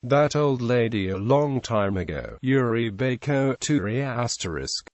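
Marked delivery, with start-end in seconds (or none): 3.6-4.0 "Turi" with stress drawn out on the Tu; lengthened stressed TU. Shown as a demonstration. Language teacher showing distance in time, lengthened stress on the Tu of "Turi". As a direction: hold the Tu in "Turi" a little longer. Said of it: "the stress on tu is often lengthened".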